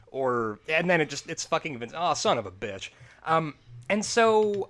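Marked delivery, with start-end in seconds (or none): 1.9-2.9 lower, weary muttered curse; Jim Ross. Retold or imitated. Commentator learning it's the boss after all, imitated tired letdown. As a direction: imitate a resigned commentator swearing to himself. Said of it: "he's just so fucking tired".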